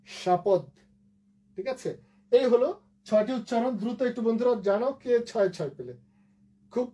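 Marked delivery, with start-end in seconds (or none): 0.1-0.6 শাপদ as sha-pod; final-consonant pronunciation. Shown as a demonstration. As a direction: end শাপদ on d without a vowel. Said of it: "দয় হস". (শাপদ, হসন্ত দ দিয়ে)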